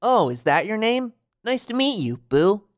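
put-on high-pitched, friendly child-directed voice; Sora. Hero meets a little girl, high and friendly. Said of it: "gets down on her height and says".

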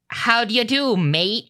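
put-on Australian accent, lilting up; Australian accent with inflection. Shown as a demonstration. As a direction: demonstrate an inflected Australian greeting. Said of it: "put a little bit more inflection on it".

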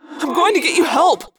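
forceful high-pitched shout; urgent yell. A narrator's reading. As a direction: yell it over the chaos. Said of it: "I yelled".

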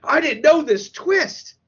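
high, drawn-out stunned outburst; emotional snap. Retold or imitated. Moviegoer blindsided by the twist, high emotional outburst. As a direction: reel from the twist, slow and high-pitched. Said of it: "I had an absolute emotional snap".

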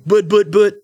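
high squeaky stammering; panicked stammer. Acted.

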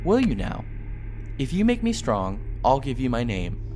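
a doubting village smith; blacksmith voice. Acted. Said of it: "agreed the blacksmith".

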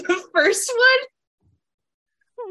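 slow, drawn-out high question; slow high quizzical voice. Retold or imitated. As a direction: stretch the question out slowly, puzzled. Quoting Sarah's answer.

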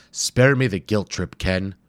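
a hint of a tired old academic complaining; lightly voiced grumpy professor. Wimple complains.

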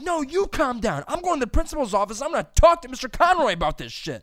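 high, loud acted-out retort; defiant shouting. Student threatening teacher with principal's office, defiant shout. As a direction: yell back, outraged and threatening to escalate.

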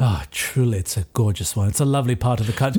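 low, appreciative character voice; low, murmured guest voice, quickening at the end; genteel party guest. Acted. Guest answers the vampire in character.

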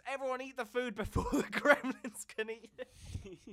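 high, loud, laughing yell to the crowd; a desperate host calling out, high and loud; panicked shout. Retold or imitated. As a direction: shout the order in a frantic, half-laughing rush. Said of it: "there's a big scene where Billy goes".

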